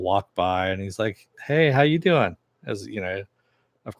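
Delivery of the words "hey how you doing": imitating a come-on, pitched up; lightly put-on pickup line delivery; flirty greeting.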